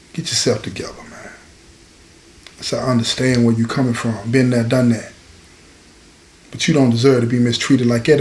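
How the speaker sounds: low, soft talk to a hurting friend; steady him gently, voice kept down; subdued, low reassurance; quiet consoling. Retold or imitated.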